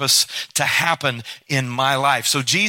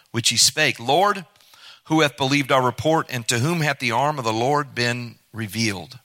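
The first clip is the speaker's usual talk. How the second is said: measured reading of the Bible passage; scripture reading. Acted. Preacher reading John to the congregation, measured reading voice. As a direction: read it out like a preacher reading the Gospel. Reads final passage aloud.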